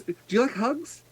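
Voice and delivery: put-on high little-girl ask; childlike question. Sea elf child asking Proximus for a hug, high. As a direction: ask sweetly like a small child. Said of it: "go over to Proximus".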